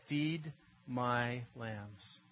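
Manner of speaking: very slow, deliberate command; solemn charge. Retold or imitated. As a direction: give each word weight.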